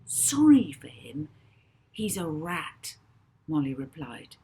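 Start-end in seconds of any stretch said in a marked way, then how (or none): 0.1-3.0 loud, slow disbelieving scorn; scornful. A narrator's reading. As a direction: scoff at the idea. Molly scornful reply.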